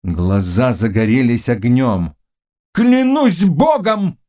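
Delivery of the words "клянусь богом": high, slow, loud oath; shout. A narrator's reading. King swears before his council, shouting. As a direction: roar the oath. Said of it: "крикнул он".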